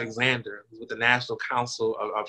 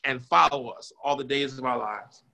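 preaching. Real, not acted. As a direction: lean into the sermon and build. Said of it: "Come on and preach".

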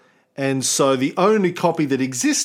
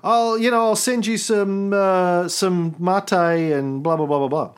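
excited fan; 5 semitones higher than usual. Retold or imitated.

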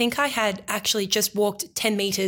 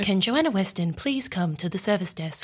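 airport announcement voice; flat echoey PA page. Retold or imitated. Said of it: "Good airport voice".

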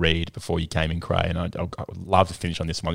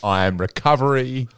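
motivational slogan read; 3 semitones higher than usual. Shown as a demonstration. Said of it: "like a local footy club wall".

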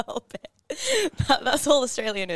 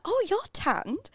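lightly voiced surprised lady, higher and slow; mimicking a lady; 10 semitones higher, slower than usual. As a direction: imitate her gushing remark. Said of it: "she was like".

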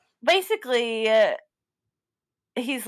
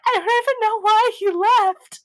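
high, louder whiny protest; hammed-up bewildered complaint, pitched way up; mock distress; 11 semitones higher, 5 dB louder than usual. Co-host imitates contestant telling her family, mock distress.

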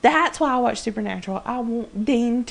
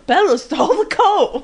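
mock surprise; 6 semitones higher, 5 dB louder than usual. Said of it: "he just states the obvious".

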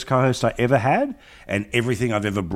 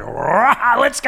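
mock hype; 12 semitones higher, 4 dB louder, much slower than usual. Imitating energetic host.

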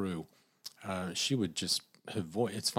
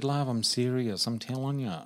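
mock earnest Aussie lady, louder and slow; insisting older lady; 5 semitones higher, 4 dB louder than usual. Older lady insisting to the teller, louder and slow. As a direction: lean into it like a stubborn old friend.

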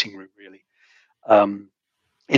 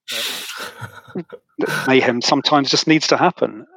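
laughing; 2 semitones higher, slower than usual. Retold or imitated. Retelling his cheeky reply to surgeon.

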